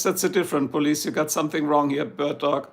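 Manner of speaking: normal talking voice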